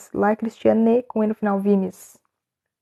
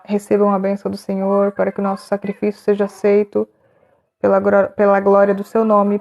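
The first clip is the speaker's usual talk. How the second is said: imitating a priest's prayer. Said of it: "Deixa eu tentar lembrar como é que é falado".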